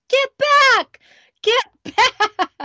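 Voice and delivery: 높게 터지는 다급한 외침; yelling get back. Retold or imitated. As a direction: shout it high and urgent, half laughing. Parents shouting at child near breakage.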